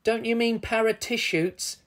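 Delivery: high, playful correction; giggly teasing. A narrator's reading. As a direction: tease lightly, as if amused. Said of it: "giggled Vic".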